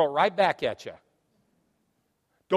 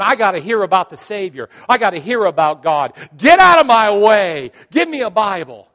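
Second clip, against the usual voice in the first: loud, urgent mock shouting; frantic crowd shout; 5 semitones higher, 16 dB louder than usual. Churchgoer fighting over chairs, frantic shouting. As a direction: shout like you're shoving through a crowd.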